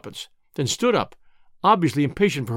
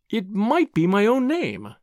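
higher, slow, deliberate reply; pointed out; 4 semitones higher, slower than usual. A narrator's reading. Tuppence parrying Whittington's suspicion, slowly pointed out. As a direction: make the point slowly and lightly. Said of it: "Tuppence pointed out".

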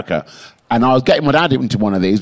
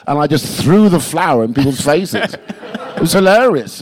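laughing; 3 semitones higher than usual. Real, not acted. Laughing through absurd story.

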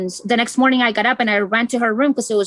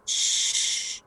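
a breathy whispered shh; shushing whisper; 9 dB quieter than usual. Retold or imitated. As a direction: hush the child to keep quiet. Mother figure shushing child.

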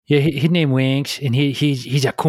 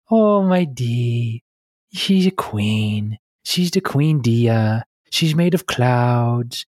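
Dia's voice; much slower than usual. Shown as a demonstration. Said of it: "That's Dia's voice".

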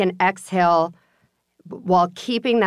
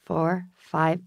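slow breathing count, fading softer; counting slowly; 5 dB quieter, much slower than usual. Shown as a demonstration.

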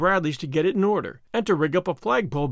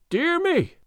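much higher, hushed wonder; awed; 13 semitones higher than usual. A narrator's reading. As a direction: breathe it in awe. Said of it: "said Stedman, with awe".

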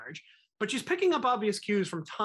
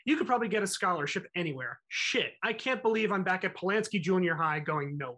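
put-on Philly accent. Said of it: "did you almost do, like, an accent".

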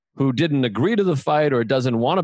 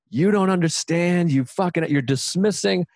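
indignant retort; 5 semitones higher than usual. Retold or imitated. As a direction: protest at being brushed off by family. Acted retort to dismissive relatives.

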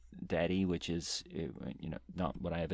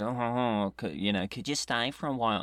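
put-on clumsy French accent led by huh-huh; bad French accent; 2 semitones higher than usual. Retrying the friend's French accent after coaching, badly faked French. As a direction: try a French accent with a stock chuckle first. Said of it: "For a French accent, you just have to go".

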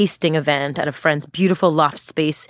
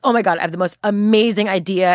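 gushing to a friend about a big idea; bubbling over, lightly acted; mock enthusiasm; 3 semitones higher than usual. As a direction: act out a mild burst of excitement. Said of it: "so much enthusiasm".

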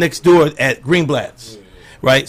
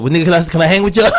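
pleading bit; faster than usual. Retold or imitated. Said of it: "did one of my numbers".

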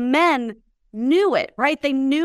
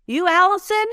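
big voice; 8 semitones higher than usual. Retold or imitated. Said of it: "just in his big voice".

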